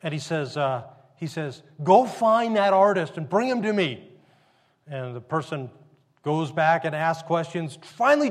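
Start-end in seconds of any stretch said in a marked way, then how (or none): 1.8-4.1 acted-out order, louder and urgent; eager command. Governor sending for the unknown artist, eagerly commanding. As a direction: send a servant off on an errand.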